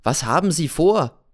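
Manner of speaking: laute, erregte Frage, höher; Anschreien. Acted. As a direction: die Frage ihm lautstark entgegenwerfen. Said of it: "schrei ich ihn an". (Erzähler schreit Cäsar an, was er vorhat, laut und höher)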